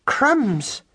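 high, squeaky startled country-mouse cry; surprised exclamation. Acted. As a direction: gasp it out like a stunned farm-girl mouse. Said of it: "said Madeline again".

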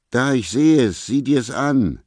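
high-pitched, excited woman's accusation; pouncing, high-voiced accusation; shrill accuser. Vicky bursts in accusing him.

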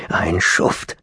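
hissed through teeth; through gritted teeth. Acted. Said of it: "knirschte Lapkin mit den Zähnen".

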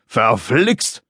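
muttered exasperation, understated; mild cursing. Acted. Dad wobbles on bike with kite, mild cursing. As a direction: curse lightly under strain. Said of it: "hörte er ihn schimpfen".

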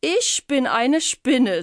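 high, slow little spider voice. Acted. Spider calmly introducing herself to the Miesepups. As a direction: speak slowly as a small odd spider.

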